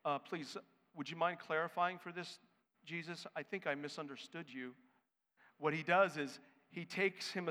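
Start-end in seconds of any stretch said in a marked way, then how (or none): 0.0-4.8 softly, mock timid and polite; a hushed, overly polite request; mock polite murmur. Peter politely asking Jesus, mock timid and soft. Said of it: "it's not like Peter is saying".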